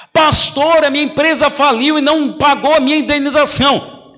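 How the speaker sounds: a hint of a distressed member; worried church member. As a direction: play the anxious believer.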